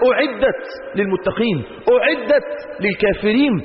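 Quran recitation. Acted. Quran phrases recited slowly.

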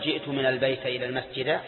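wrong-case demo, "al-bayta ila l-masjida"; incorrect fatha endings. Shown as a demonstration. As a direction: end البيت and المسجد in "a". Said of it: "ولا يجوز أن تقول".

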